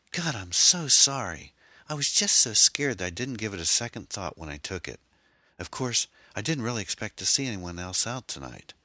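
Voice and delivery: put-on girl apologizing to the Jeep's owner, distraught; upset young woman. A narrator's reading. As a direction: pour out a frantic apology.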